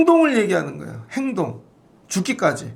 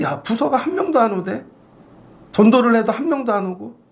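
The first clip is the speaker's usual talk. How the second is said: exasperated complaint; 3 semitones higher than usual. Retold or imitated. 개척교회 하소연 재연.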